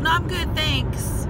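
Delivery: high, sharply dismissive no thanks; curt refusal. Retold or imitated. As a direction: brush her off, sing-song high. Refusing stylist's coupon, retold.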